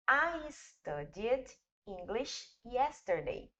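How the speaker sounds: slow, careful English read-out of "I studied English yesterday"; teacher reads the English example slowly for students to copy; model English sentence. Shown as a demonstration. Teacher to class, model reading: slow, careful English. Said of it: "Olha o exemplo".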